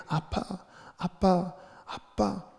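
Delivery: put-on a small child's high, soft call of "아빠"; cute childlike call. Shown as a demonstration. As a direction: call "아빠" sweetly like a toddler. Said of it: "귀엽게 외치고 있는 거구나". (아기처럼 귀엽게 부르는 "아빠")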